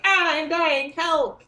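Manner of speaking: mock cry for help. Player showing friends the signal for backup, mock cry for help. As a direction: play-act a cry for rescue. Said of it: "if I'm like".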